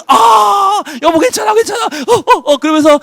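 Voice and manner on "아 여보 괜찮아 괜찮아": much higher, strained reassurance; hurt but calm her; pained reassuring cry. Acted. Husband hit by collapse.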